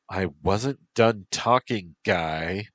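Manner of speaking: put-on high, pouty valley girl; pouty valley girl protest. Bee girl character speaks.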